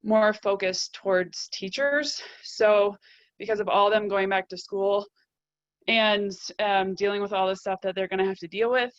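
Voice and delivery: breathless, short breaths between phrases; talking while winded. Real, not acted. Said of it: "Sorry, I'm out of breath".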